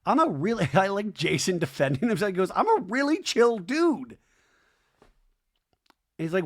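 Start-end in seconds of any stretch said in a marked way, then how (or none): 2.5-4.2 mock chill dude. Jason's quote voiced in recap.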